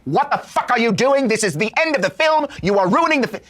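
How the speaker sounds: retold angry yell. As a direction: bellow at the crowd like a furious director. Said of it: "He was so mad".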